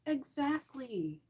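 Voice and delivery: knowing slow Exactly; drawn-out exactly. Real, not acted. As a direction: savor the word Exactly slowly. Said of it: "drawn-out agreement".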